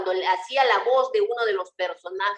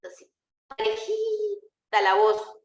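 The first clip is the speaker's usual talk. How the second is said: slow, high and evenly paced, every word the same; a mock sing-song monotone, slow and held high; even monotone reading; 11 semitones higher, slower than usual. Shown as a demonstration. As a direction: show how a flat, run-on read sounds. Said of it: "¿O nos hemos ido así de corrido?".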